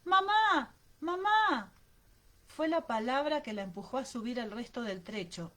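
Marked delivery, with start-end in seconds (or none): 0.1-1.7 high, loud horrified cries; children screaming. A narrator's reading. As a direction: scream for mother in horror. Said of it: "coro de gritos". (gritos horrorizados de niños)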